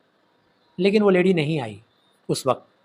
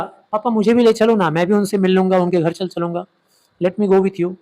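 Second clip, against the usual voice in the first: raised, insistent son's plea; pleading; 2 semitones higher, 4 dB louder than usual. Acted. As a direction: beg dad to take you along. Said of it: "plead किया, मतलब खूब request किया". (गिड़गिड़ाते बेटे की मिन्नत)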